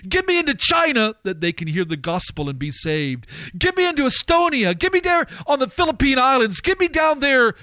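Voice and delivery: fervent prayer building to high-pitched pleas; impassioned preacher's plea; emotional begging. Acted. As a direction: beg God with open emotion, climbing in pitch. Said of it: "not afraid to have emotion and say".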